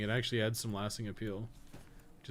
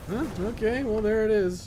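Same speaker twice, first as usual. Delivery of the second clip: surprised; 12 semitones higher, 9 dB louder than usual. Real, not acted. Boss suddenly dies easily.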